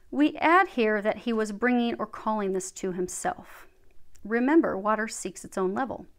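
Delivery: measured book-reading voice; reading aloud. Real, not acted. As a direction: read it out evenly, phrase by phrase.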